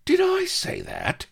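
very high, bewildered squeak; high-pitched sidekick caught out; quavering Vladimir. A narrator's reading. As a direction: squeal it in alarmed confusion. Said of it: "quavered Vladimir, bewildered".

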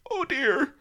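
high, loud flustered oh dear; Doctor Death realizing his blunder; dismayed gasp. Acted. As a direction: catch yourself, alarmed. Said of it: "he gasped".

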